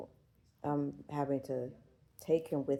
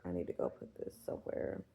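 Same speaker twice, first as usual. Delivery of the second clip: whispering; 6 semitones higher, 11 dB quieter than usual. Real, not acted. Muttering to herself while tidying up.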